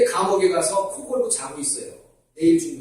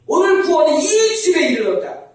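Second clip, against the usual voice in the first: 오늘 구원이 이 집에 이르렀다 said much higher and louder, falling at the end; loud proclamation; 8 semitones higher, 5 dB louder than usual. Shown as a demonstration. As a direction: proclaim it like a preacher at full force. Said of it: "아멘?". (크게 선포하듯)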